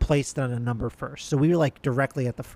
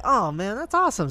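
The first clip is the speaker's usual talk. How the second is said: high delighted exclamation; excited; 7 semitones higher than usual. Retold or imitated. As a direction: squeal it out with delight. Excited reaction to free passes.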